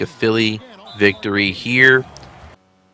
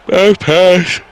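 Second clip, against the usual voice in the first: "Bad pass" stretched out through a big yawn, higher and louder; 9 semitones higher, 7 dB louder than usual. Real, not acted. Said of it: "Sorry, yawning".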